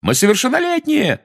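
high, loud shout; yelling protest. Acted. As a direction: yell it in protest. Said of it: "разом завопили".

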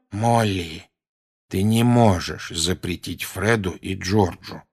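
slow tired reasoning; a touch of tired husband; weary objection. Acted. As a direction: object wearily. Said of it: "устало возразил".

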